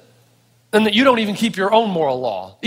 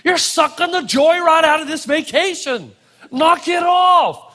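cranky telling-off; 5 semitones higher than usual. Retold or imitated. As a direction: tell her off, tired and fed up. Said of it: "I just wanted to walk up and say".

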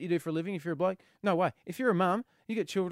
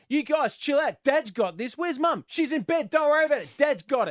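put-on bright, higher, eager dad telling kids to relax; cocky reassurance; 5 semitones higher, 4 dB louder than usual. Dad assuring the kids he has everything handled, cocky. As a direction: sell it like a dad who has it all handled.

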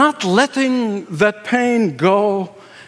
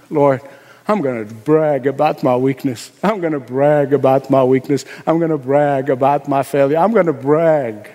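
humble resolve; 7 semitones lower than usual. Retold or imitated. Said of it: "to saying".

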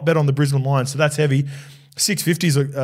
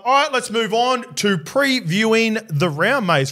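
higher, slow segment announcement; podcast presenter read; 3 semitones higher, slower than usual. Real, not acted. Host introducing the round preview and sponsor odds, presenter delivery. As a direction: present it deliberately, stretching the key phrases.

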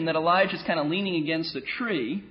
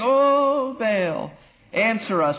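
mock pleading cry; much slower than usual. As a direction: imitate worshippers calling out to their god. Mimics prophets' chant-like cry to Baal.

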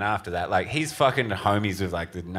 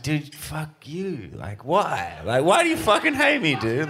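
hammed-up indignant protest; mock outrage; 7 semitones higher than usual. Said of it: "I'm like".

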